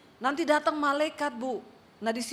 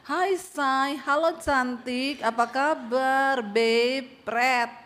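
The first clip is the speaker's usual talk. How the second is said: mock sweet talk; 4 dB louder, much slower than usual. Mocking sweet-talking borrowers.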